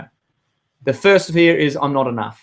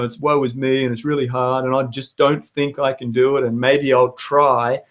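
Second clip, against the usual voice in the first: depressed. Retold or imitated. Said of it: "if you're in a depressed state".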